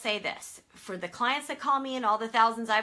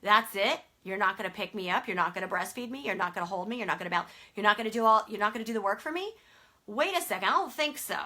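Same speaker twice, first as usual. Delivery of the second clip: put-on indignant baby; 5 dB louder than usual. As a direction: play the protesting infant in disbelief. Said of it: "they're like".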